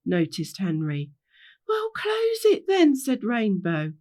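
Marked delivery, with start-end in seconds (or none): 1.7-2.9 high, drawn-out, slow retort; exasperated retort. Acted. Rainbow telling Henry to shut the gate, high exasperated retort. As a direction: answer as if it's obvious.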